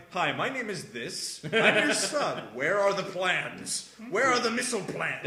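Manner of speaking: mock-panicked demanding into the phone; hammed-up panic with a laugh; panicked phone call. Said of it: "I'm like".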